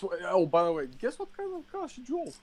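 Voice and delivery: teasing question. Real, not acted. Teasing quiz.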